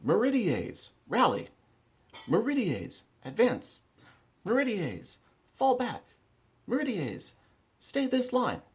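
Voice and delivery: high, loud called orders across a field; shouted battle commands. Shown as a demonstration. Commander calling orders to his army, shouted high and loud. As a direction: bellow each unit call up high and hold it. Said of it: "The first thing you say is the name of the unit".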